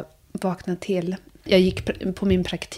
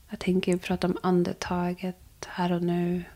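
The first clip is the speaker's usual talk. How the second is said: soft aside; 5 dB quieter than usual. Real, not acted. Calm closing about breath.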